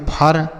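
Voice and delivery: फर as one syllable, "phur"; wrong reading. Shown as a demonstration. Teacher tests students with a misapplied rule, फर in one syllable. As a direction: say फर with short uh and no glide. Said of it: "क्या हम इसे ऐसे पढ़ेंगे?".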